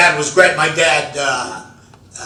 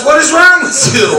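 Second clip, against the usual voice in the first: higher, louder cry of disbelief; incredulous shout; 10 semitones higher, 8 dB louder than usual. Retold or imitated. Wife baffled by husband's sock plan, shouting in disbelief. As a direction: blurt it out in shock.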